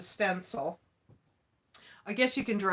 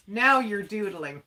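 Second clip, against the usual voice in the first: laughing; 4 dB louder than usual. Real, not acted. Laughing at a viewer's comment.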